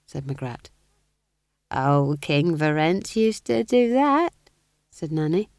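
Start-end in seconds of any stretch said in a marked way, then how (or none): 1.7-4.3 put-on slow, louder old-witch gossip voice; lightly voiced old witch. Old witch recalls the former king, in gossipy manner.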